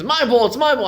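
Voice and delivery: put-on high, loud little-girl wail; child's scream. Daughter screaming at her father over a ball, high wail. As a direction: shriek like a possessive six-year-old.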